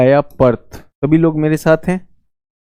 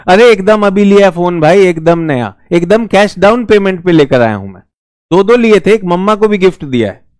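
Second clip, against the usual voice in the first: mock loud bragging; 2 semitones higher than usual. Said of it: "इतना जोर जोर से बोलेगा".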